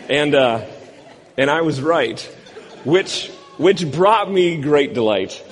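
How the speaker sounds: chuckling through the words; laughing. Real, not acted. Pastor recalling his prank on C J, laughing. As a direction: let real delight bubble up as laughter.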